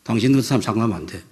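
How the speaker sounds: fast scolding ending in a loud cutoff; brusque, heated order; angry dismissal. Retold or imitated. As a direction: re-enact throwing someone out, finishing hard. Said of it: "화를 내었어요".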